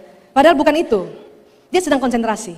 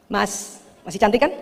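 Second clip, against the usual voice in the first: soft sweet call; 5 semitones lower, 7 dB quieter than usual. Acted. Wife softly calling distracted husband.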